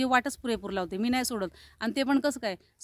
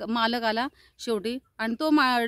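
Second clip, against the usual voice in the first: ordinary talk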